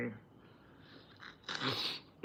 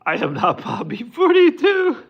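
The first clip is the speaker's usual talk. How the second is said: laughing; 12 semitones higher, 8 dB louder than usual. Real, not acted. Laughing denial to chat.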